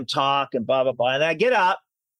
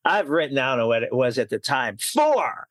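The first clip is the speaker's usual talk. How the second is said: retold offense. Author correcting an admirer, retold with mild offense. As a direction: replay being offended, punching the final count. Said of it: "I was offended. I was like".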